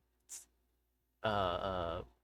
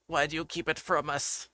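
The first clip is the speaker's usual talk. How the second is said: put-on Victorian child voice; 8 semitones higher than usual. Cat begging its tuna-eating owner, as a Victorian child. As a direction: plead like a hammed-up Edwardian orphan. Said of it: "Edwardian or Victorian child voice".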